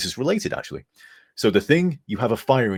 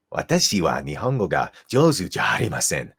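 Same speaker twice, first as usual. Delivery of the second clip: Wise voice. Acted. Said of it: "Wise has some Japanese ancestry".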